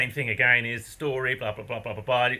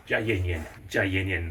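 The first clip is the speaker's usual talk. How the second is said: calming words; 6 semitones lower than usual. Retold or imitated. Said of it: "That means calm down".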